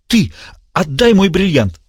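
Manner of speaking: high, grasping madman's demand; desperate villain. A narrator's reading. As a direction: claw for the diamond. Diogenes voiced high.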